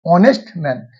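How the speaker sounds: "ऑनेस्ट man" opened on an aw vowel, no h; silent H. Shown as a demonstration. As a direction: leave the H out of "ऑनेस्ट". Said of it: "एच silent है".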